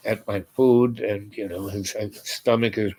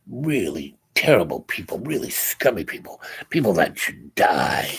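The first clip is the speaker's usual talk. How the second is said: retold bitter contempt; 3 semitones lower than usual. Stranger tells what rainbows are, retold bitter contempt. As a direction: spell out the contempt, weighting the final word.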